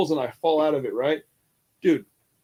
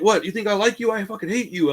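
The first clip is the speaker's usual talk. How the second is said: put-on high-pitched, hostile African accent; thick African accent; 7 semitones higher than usual. Inmate tells a greeter he hates him, in imitated African accent. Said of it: "he had a very thick accent".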